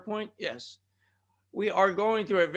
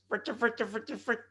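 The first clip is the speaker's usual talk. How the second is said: higher, repeated scratchy-DJ stutter; mock remix stutter; 4 semitones higher, 5 dB quieter than usual. Host jokes about tongue-twisted words, mock remix stutter. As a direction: loop the syllables like a remix. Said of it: "That's called the remix".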